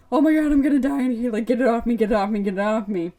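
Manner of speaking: a hammed-up scream for help, rushed; retold girl panicking, trapped in a mask; mock panic.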